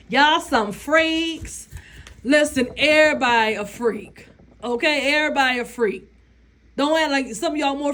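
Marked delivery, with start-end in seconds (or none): 0.1-1.7 mock accusation. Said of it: "They tell her".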